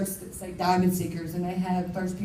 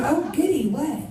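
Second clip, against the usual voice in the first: high, louder burst of delighted curiosity; eager surprise; 8 semitones higher, 4 dB louder than usual. Retold or imitated. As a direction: jump up in pitch, eager to hear. Hearing the stripper stage name.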